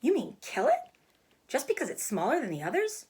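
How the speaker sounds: put-on a child protesting in alarm; read-aloud girl pleading to save the pig; upset girl.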